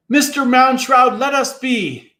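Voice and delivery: high, loud desperate plea; pleading cry. A narrator's reading. Tom begs the giant to spare them, high and pleading. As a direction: beg for mercy up at the sky. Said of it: "Tom begs the giant".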